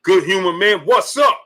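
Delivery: high challenging what's-up; imitated sitcom character. Streamer acting out the Martin scene, high put-on challenge. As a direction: pitch it up, ends rising. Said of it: "He was like".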